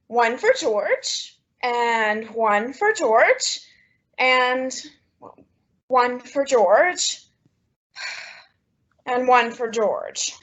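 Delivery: each "one for George" sinks further, ending in a sigh; slow forlorn listing. Acted. Sorting mail, none for her.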